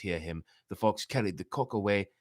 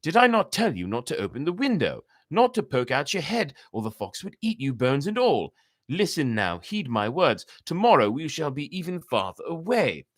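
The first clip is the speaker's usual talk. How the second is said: louder, higher scolding cat; 6 semitones higher, 6 dB louder than usual. Acted. The cat scolds the cock for opening the window, raised scolding. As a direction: tell him off, firm and raised.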